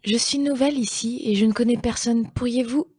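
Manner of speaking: lightly voiced polite newcomer; gentle call. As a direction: coax the closed door open gently. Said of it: "Elle appelle gentiment".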